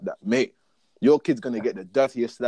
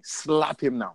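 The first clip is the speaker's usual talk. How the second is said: higher-pitched order to slap; acted command; 5 semitones higher, slower than usual. Parent telling their child to slap a kid, commanding.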